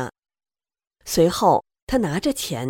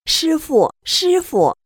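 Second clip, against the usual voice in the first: loud, high call for help; frightened high-pitched calling; 10 semitones higher, 6 dB louder, slower than usual. Retold or imitated. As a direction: cry out to the master as the snake appears. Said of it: "我就喊师傅".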